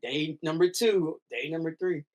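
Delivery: slow, deliberate day count. Retold or imitated. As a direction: tick off each day.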